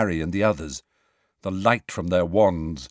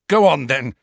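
defiant; 4 semitones higher, 7 dB louder than usual. A narrator's reading. Harry defiant.

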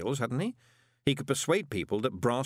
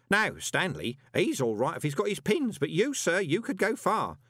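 high, urgent character voice; earnest old underling; 7 semitones higher than usual. Acted. Grote warns Moist to leave, earnest and high-pitched. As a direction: plead a warning to the boss.

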